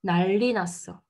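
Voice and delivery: "난리 났어" as nalli nasseo, with a double l; correct assimilation. Shown as a demonstration. Teacher modelling natural Korean, clear assimilated demo. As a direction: say "난리" with one long l, running into "났어". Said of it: "Si vous dites 난리".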